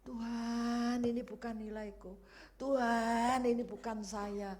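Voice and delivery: retold tearful praying; tearful prayer. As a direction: cry out to God in overwhelmed thanks, building then easing. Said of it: "saya masih nangis".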